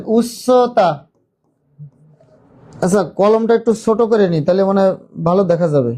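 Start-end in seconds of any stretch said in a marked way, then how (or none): 0.1-0.9 উচ্চতা said slowly, middle stretched; slow model of উচ্চতা for learners to repeat; drawn out for repeating. Shown as a demonstration. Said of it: "বলেন".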